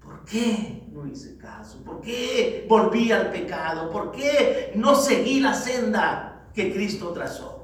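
slow, drawn-out lament; lamento con autorreproche. Acted. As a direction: lament your own choices, stretching each regret. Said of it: "Te vas a estar lamentando". (lamento lento de quien se reprocha a sí mismo)

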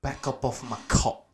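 put-on South African warning; South African-accented brush-off. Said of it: "South African accent".

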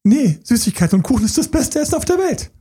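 put-on high, childish insistence; child's voice. A child insisting to the adult that sweets are best, in a high childish voice. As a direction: play the stubborn kid who loves sweets. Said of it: "warum sagt das Kind".

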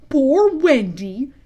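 slow, loud question with rising end; puzzled echo. A narrator's reading. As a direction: repeat it as a drawn-out question. Listener echoes it, puzzled.

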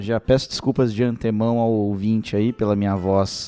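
hoarse, nasal voice from the flu. Real, not acted. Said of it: "pela minha voz fanha de taquara rachada".

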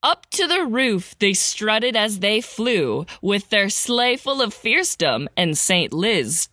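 rhythmic storybook read; sing-song Christmas verse recital; poem reading. A narrator's reading. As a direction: read it like a holiday poem to kids. Reads Christmas poem parody aloud.

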